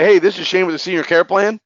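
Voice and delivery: upbeat, bright opener without a pause; enthusiastic. Shown as a demonstration. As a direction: sound glad to be calling them back. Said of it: "you need to be enthusiastic".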